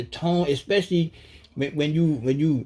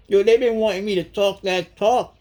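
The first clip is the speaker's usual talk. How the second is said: excited; 8 semitones higher, 5 dB louder than usual. Real, not acted. Excited outburst.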